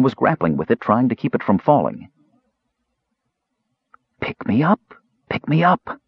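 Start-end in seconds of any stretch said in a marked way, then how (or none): 4.2-6.0 high, eerie calling voice; talking box. A narrator's reading. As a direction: call out high like an enchanted box. Talking box calls to the kender.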